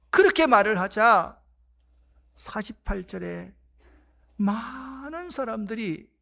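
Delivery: usual speaking voice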